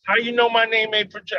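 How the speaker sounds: high, indignant woman's voice; mock offended lady; sassy woman. Process server imitating a customer, high and indignant. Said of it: "She'd have been like".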